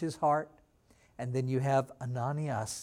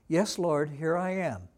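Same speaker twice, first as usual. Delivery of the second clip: calm answer. Pretend. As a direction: answer simply, at ease. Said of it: "He just very calmly says".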